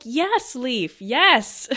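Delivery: root for the character; real fan cheer. Real, not acted. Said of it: "And I'm like".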